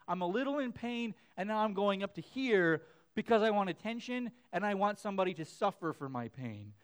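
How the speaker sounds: a hint of a whiny kid milking it; mock a child playing up a little hurt for attention; attention-seeking kid. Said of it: "you can tell when your kid's like".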